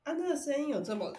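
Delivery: hiccuping mid-sentence; with hiccups. Real, not acted. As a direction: talk through a hiccup. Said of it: "这种节目是可以打嗝的吗？".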